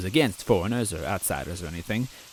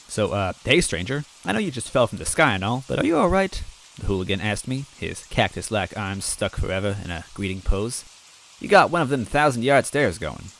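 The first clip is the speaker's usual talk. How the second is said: friendly bean vendor. Acted. Hooligan voiced asking.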